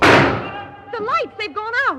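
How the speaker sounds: high, loud panicked cry; frightened cry. Acted. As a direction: gasp it out in sudden fear. Lights go out in the tunnel.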